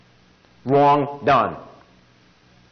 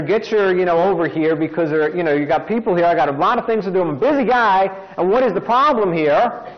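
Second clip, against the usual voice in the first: irate customer rant, raised a little; mock yelling; 3 semitones higher than usual. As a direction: complain impatiently to the store manager, without really shouting. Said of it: "I'm yelling, telling the manager".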